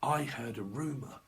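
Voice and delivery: hushed rumour whisper; gossipy whisper. Retold or imitated. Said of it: "it's like".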